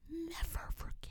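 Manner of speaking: dramatic whisper, drawn out; slow, whispered for effect; hushed vow. Real, not acted. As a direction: drop to a slow, voiceless whisper. Dramatic vow never to forget.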